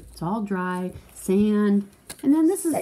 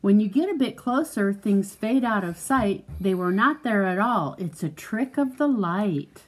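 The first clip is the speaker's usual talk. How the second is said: measured, lilting picture-book read; reading to a child. Acted. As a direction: read it out clearly for a young listener.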